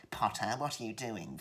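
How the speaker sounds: hammed-up sneering schoolmaster voice; snide Potterish villain. Shown as a demonstration. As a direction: overdo the pantomime snideness.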